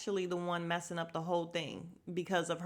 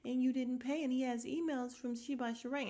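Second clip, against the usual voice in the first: lightly voiced, higher interrupting busybody; mock pestering explanation; imitating Drew; 4 semitones higher, 3 dB quieter than usual. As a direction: keep insisting over her in a higher voice. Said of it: "Drew is constantly like".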